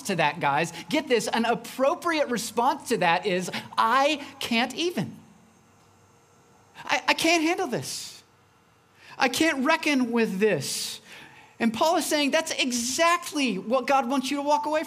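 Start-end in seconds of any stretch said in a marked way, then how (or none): 3.8-11.0 overwhelmed whine. Acted. Acted cry of someone overwhelmed.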